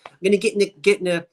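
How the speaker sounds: quick South Jersey accent demo. Shown as a demonstration. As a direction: Delaware Valley accent, rattled off as a list. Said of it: "do we really sound like that".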